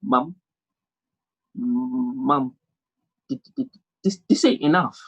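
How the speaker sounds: timid attempt at a brave voice; faltering mock bravery, stuttering; brave man voice. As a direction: try to sound brave but stammer. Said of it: "in my brave man voice".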